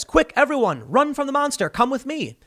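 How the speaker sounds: a pretend panicked call to flee the monster; mock alarm. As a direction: play at panic to lead them off. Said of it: "And then he says".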